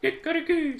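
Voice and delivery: high, loud crowing call; rooster crow. Acted. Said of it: "said the cock".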